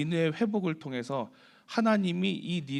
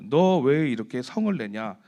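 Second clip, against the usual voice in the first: slow, louder rebuke; God's rebuke; 5 dB louder, slower than usual. Retold or imitated. God asking Jonah why he is angry, slow and louder. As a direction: weigh each word like a stern question. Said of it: "하나님이 반문하시는 거예요".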